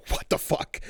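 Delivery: whispered mock disbelief; stunned whisper. Parent watching the baby drop back asleep, stunned whisper.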